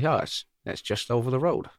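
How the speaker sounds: a light, half-slipped Jamaican accent on a mock American quote; mock Jamaican accent, barely there; stray Jamaican accent. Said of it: "why they would say it in a Jamaican accent like that".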